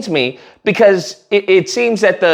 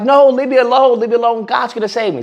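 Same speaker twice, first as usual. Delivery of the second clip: higher-pitched "leave me alone"; acted stubborn refusal, easing off; mock protest; 4 semitones higher than usual. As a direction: brush off help, hammed up. Man refuses dolphin in joke.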